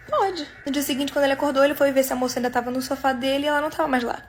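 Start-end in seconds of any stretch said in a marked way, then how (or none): 0.1-0.5 reluctant, higher-pitched awkward yes; imbarazzato. Retold or imitated. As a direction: agree awkwardly, pitch lifting. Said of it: "ficou meio constrangido e falou".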